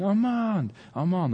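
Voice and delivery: searching call, held back in volume; mock shouting. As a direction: imitate a father calling for his son. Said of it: "just shouting".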